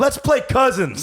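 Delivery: high, slow hammed-up Texan bully; lightly put-on Texas bully drawl; mock Texas accent. Older brother teasing younger brother in a put-on Texas accent. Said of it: "beating him in the Texas accent".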